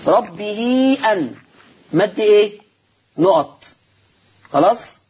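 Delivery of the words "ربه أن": ربه أن recited slowly in chant tone; Quranic recitation. Shown as a demonstration. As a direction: chant ربه أن as in Warsh reading.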